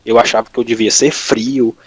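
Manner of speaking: ordinary talk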